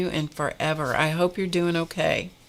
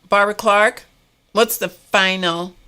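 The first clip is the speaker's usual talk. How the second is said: calling out; 3 semitones higher, 6 dB louder than usual. Real, not acted. Calling on a critic in chat.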